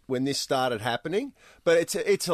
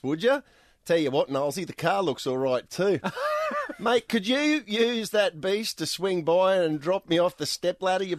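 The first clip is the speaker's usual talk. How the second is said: Aussie lingo. Retold or imitated. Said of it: "all done in Aussie lingo".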